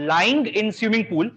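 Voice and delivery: very slow, every word stretched; slow dictation. Shown as a demonstration. Teacher dictating the mnemonic for students' notebooks, very slowly. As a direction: dictate it slowly so they can write. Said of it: "मैं slang भी बोल रहा हूँ एक बार".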